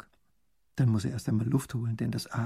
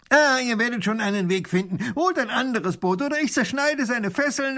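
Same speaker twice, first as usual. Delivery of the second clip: robber voice; 11 semitones higher, 5 dB louder than usual. Acted. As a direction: announce it grandly. Robber answers.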